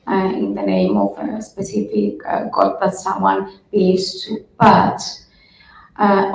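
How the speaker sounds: hoarse, congested flu voice; talking through a bad flu; sick with flu. Real, not acted. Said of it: "That's why I'm talking a bit weird".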